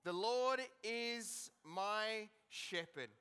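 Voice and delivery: slow, measured scripture reading; solemn reading of a psalm. Acted. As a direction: read each phrase slowly, letting it land. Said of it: "It says this".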